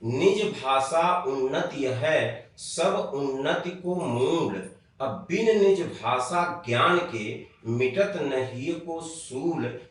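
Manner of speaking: slow recitation of a doha; recited couplet. Shown as a demonstration. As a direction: recite the verse slowly and solemnly. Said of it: "एक मोटा सूत्र जान लीजिए". (धीमे, गंभीर दोहा पाठ)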